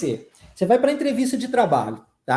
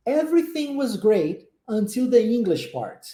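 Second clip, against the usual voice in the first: "Everything was great" then a pause before "until the English part"; pause in the phrase. Shown as a demonstration. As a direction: clear break after "great", then finish the sentence falling. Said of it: "Preste atenção nas pausas". (pausa depois de "great", entonação caindo no final)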